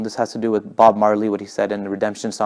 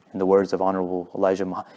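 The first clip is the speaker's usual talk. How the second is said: calm, lower, brisk delivery; Malcolm; 4 semitones lower, 5 dB quieter, faster than usual. Retold or imitated. Speaker showing power without yelling, calm. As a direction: imitate a composed, unraised speaking voice. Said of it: "he was so calm".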